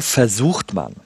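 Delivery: "versucht" set off with emphasis; stress on versucht. Real, not acted. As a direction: lean firmly on "versucht", then pause. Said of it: "ich betone aber versucht".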